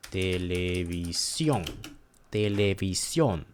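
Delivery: televisión with the final "sión" drawn out and stressed. Shown as a demonstration. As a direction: lean slowly on the last syllable of televisión. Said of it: "when you see an accent ... in on, you say".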